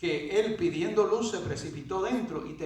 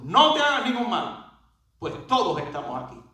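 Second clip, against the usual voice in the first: loud, raised cry of warning, easing after the first words; crying out loudly; 3 semitones higher, 5 dB louder than usual. Retold or imitated. Preacher voices Paul stopping the jailer from killing himself, loud cry. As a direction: call out urgently to stop him. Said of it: "Pablo clamó en gran voz diciendo".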